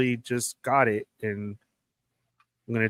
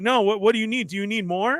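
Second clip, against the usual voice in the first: higher-pitched imitation of an over-eager worker; imitated flustered eagerness, pitched up; eager mock appeasing; 6 semitones higher than usual. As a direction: fall over yourself offering help. Quotes worker eager to make amends.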